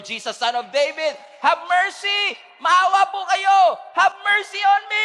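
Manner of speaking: very loud, high cry for mercy; desperate shout. Acted. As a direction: scream out to Jesus, begging. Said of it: "he shouted even more".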